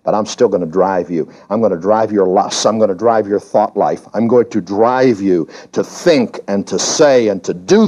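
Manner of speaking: low, menacing voice of death; lightly voiced death taunting. Preacher voicing death taunting the believer, low and menacing.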